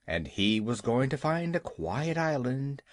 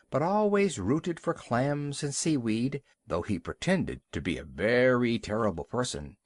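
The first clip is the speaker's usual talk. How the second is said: plain reading voice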